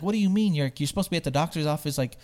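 retold agitation, rushed; getting upset. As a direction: fire off mock-indignant questions. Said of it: "he's getting upset".

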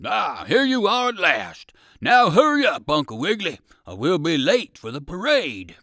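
loud, high, urgent hurry-up; exclaiming. A narrator's reading. Dog soldier hurries the rabbit to the parade, exclaiming. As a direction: exclaim it loudly, hurrying him along. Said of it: "the dog soldier with the gun exclaimed".

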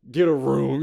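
teasing. Retold or imitated. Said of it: "I do that to mess with people".

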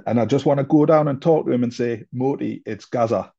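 put-on a light Geordie accent for Gaza's words; mildly mimicking Gaza in Geordie; imitating Gaza's Geordie accent. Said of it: "you have to excuse the accent".

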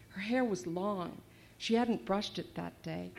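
put-on reading her novel aloud to young listeners; story reading. A narrator's reading. Author reading her novel aloud to kids, storytelling voice. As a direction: read it like a storyteller, steady and clear.

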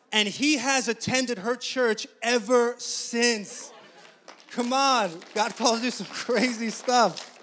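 loud, high, emphatic preaching; preaching climax. Real, not acted. Preacher reveals the clerk came to the Lord, loud and triumphant. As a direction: raise it up and proclaim it to the room.

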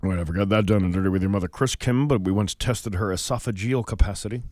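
low, fast put-on voice; lightly voiced Caitlyn; Caitlyn impression. Mock Caitlyn voice, named.

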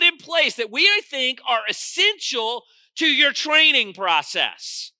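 punchy pulpit teaching; firm sermon voice, leaning on key words; emphatic preaching. Real, not acted. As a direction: lay out each step with force. Preaches the church's training steps.

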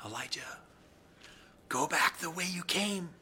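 still small voice. A narrator's reading. The Lord calling Elijah back, in a still small, hushed voice. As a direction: barely voice his name, gently. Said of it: "in this still small voice".

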